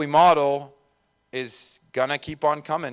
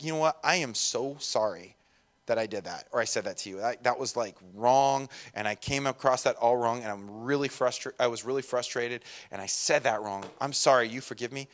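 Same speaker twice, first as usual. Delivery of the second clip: put-on soft apology to kids; 3 semitones lower, 5 dB quieter than usual. Parent apologising softly to their child, tender and quiet. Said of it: "I'm like".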